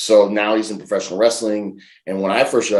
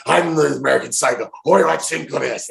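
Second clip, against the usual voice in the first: mock wrestling promo; 6 semitones higher than usual. Imagined promo on camera.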